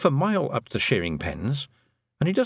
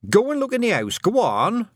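high, louder urgent command; frantic order; 12 semitones higher, 4 dB louder than usual. Acted. Mother sending Tiffany to search the house, frantic loud order. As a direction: bark it at her daughter.

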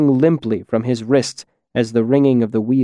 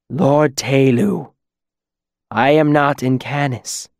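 pitiful. A narrator's reading. Bound demon pleading with Lord Telu, pitiful. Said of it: "the demon's voice was pitiful".

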